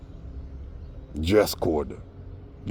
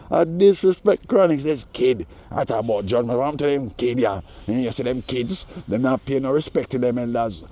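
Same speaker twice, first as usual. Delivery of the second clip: mock rant in the style of a singer; 4 semitones higher than usual. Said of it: "the singer came out".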